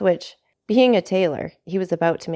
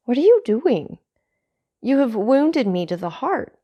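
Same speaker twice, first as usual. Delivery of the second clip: put-on high, pained old father; an old man hurt and pleading; 7 semitones higher than usual. Old father pained, son kneeling.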